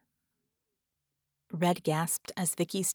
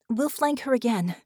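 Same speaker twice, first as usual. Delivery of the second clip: higher, firm woman's voice; Vicky's order; 5 semitones higher, 3 dB louder than usual. Acted. Injured Vicky plans the attack with Red, firm. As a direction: call the next move.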